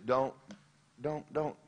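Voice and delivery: soft, polite plea to a bully; meek retold request; asking nicely. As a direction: timidly ask him to stop. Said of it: "I asked him nicely".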